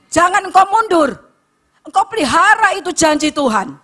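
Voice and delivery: high, forceful exhortation; fervent preaching. Real, not acted.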